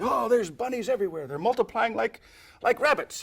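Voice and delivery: mock amazement. Shown as a demonstration. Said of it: "And then you say".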